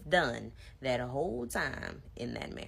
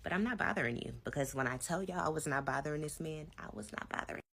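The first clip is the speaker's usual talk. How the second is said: same voice as then; 2 semitones higher than usual. Retold or imitated. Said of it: "I said it in just the same voice I'm about to say it".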